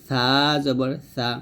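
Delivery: tongue-tip, light th in "সা জবর সা"; thin tha. Shown as a demonstration. Teacher demonstrating the letter tha, thinly pronounced "সা জবর সা". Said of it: "সা পাতলা হবে".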